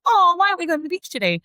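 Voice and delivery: mock child protest straight after a no; whiny child. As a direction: fire the question back fast like a pushy kid. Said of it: "And it's that fast".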